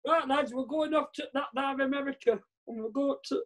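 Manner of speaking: badly faked Russian commander rallying the lads; Russian submarine commander. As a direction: play a commander with a hopelessly wrong accent. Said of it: "when I play a Russian submarine commander".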